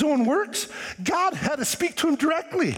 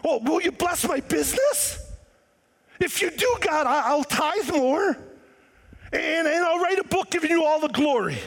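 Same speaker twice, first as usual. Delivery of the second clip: bargaining prayer; 3 semitones higher than usual. Retold or imitated. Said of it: "how many people".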